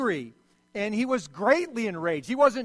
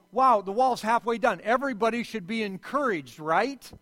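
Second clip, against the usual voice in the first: mock cheer; 2 semitones higher, 4 dB louder than usual. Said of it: "you would say".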